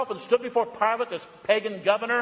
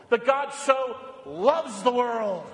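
slow earnest proclamation; slower than usual. Real, not acted. Preacher stresses the gospel.

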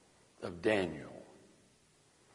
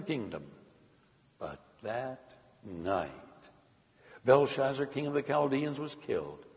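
higher, animated Bible narration; scripture reading; 8 semitones higher, 4 dB louder than usual. A narrator's reading. Preacher reads the king's downfall to the congregation, animated scripture reading. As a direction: read the story's climax out to a congregation.

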